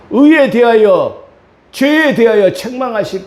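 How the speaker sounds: high, loud, slow proclamation; emphatic preaching. Real, not acted. Preacher thunders about coming judgment, loud and slow. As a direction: hammer each syllable home.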